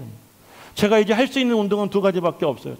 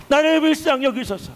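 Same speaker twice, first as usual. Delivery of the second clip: higher, pleading prayer cry; earnest plea; 6 semitones higher than usual. Shown as a demonstration. Preacher leading prayer for mercy, earnest raised plea. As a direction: beg for mercy with urgency. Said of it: "그런 간절함으로".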